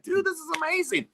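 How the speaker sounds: high, gushing amazement; thrilled awe, retold. Engineer hearing the guitarist's new record, retold high thrilled awe. His thrilled reply, acted.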